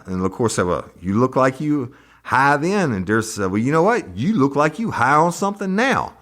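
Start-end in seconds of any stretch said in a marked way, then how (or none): 0.7-2.9 mock prosecutor. Prosecutor taunting witness, retold. 3.5-6.1 mock comeback. Witness fires back at attorney.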